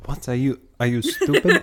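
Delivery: talking through a mouthful of almonds; words round a full mouth; cheeks stuffed full. Real, not acted. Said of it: "Sorry, my mouth is full of almonds".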